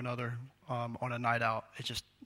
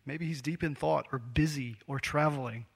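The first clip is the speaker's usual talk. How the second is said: mild taunt. Retold or imitated. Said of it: "I needed an Elijah to tell me".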